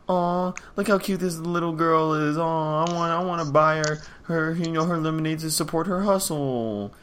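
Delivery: mock-gush over a cute little kid; cooing sympathy. Imitating a buyer won over by a little lemonade seller, cooing.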